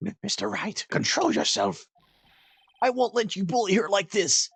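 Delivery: high, earnest anime voice; overacted anime dub. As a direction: play the noble hero, dubbed. Voicing game character lines.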